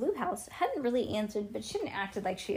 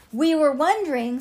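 louder, higher second try; a little louder; 6 semitones higher, 10 dB louder than usual. A narrator's reading. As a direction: push the words out louder. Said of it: "said Ivy a little louder".

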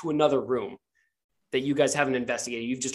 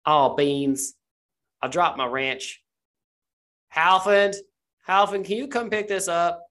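calling out for help, pitched up on the name; voice through archway; 4 semitones higher, 3 dB louder than usual. Acted. Unseen worker calls Halfin through the archway, calling out. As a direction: holler for an assistant to come over. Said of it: "you hear a voice come through".

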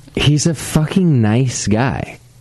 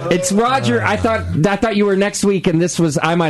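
much higher, dismayed voice; flustered surprise; 8 semitones higher than usual. Real, not acted. Realises the guest dates got mixed up.

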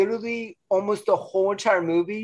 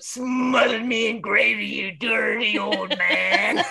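mock movie line; 4 semitones higher, slower than usual. Quoting the movie.

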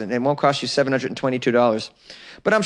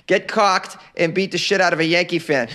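laughing; 3 semitones higher than usual. Real, not acted. Repeats line through laughter.

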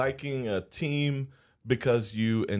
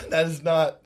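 laughing. Real, not acted. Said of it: "Oh, man, I'm crying".

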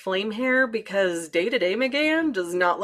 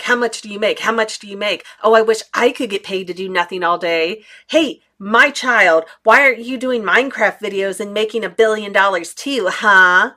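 rude mocking people; 5 dB louder than usual. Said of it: "inappropriate things like".

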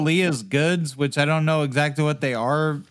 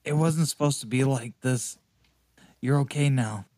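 soft bedside voice; 2 semitones lower, 4 dB quieter than usual. Acted. Comforting dying friend at bedside.

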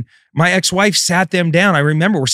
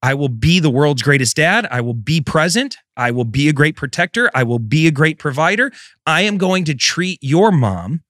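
measured, insistent list of promises; resolute vow. Retold or imitated. Father silently vowing to his daughter, retold with resolve. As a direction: pledge each item firmly, in a repeating cadence.

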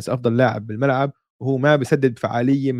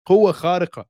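excited exclamation; 5 semitones higher than usual. Real, not acted. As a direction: punch it like a catchphrase. Repeating hype catchphrase.

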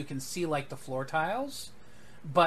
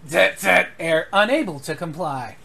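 glitching computer; 2 semitones higher, 10 dB louder than usual. Acted.

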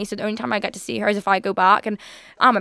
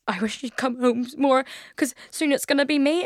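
imitating nana; 3 semitones higher than usual. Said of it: "and she was like".

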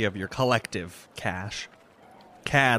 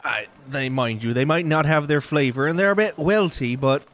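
grudging vendor; 4 semitones higher, 4 dB louder than usual. Acted.

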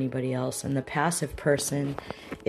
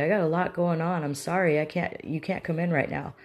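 raised, indignant telling-off of a visitor; acted confrontational outburst; mean aggressive person; 3 semitones higher than usual. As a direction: turn an uninvited friend away angrily. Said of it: "aggressive person".

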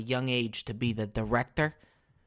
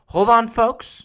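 raised voice and higher pitch, cutting in; loud call; 6 semitones higher, 7 dB louder, slower than usual. Acted. Host stops the show for an ad, loud call. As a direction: call out to hold the listeners.

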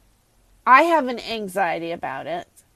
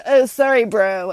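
careless bro; 6 dB louder than usual. Pretend. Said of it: "cough in their face and go".

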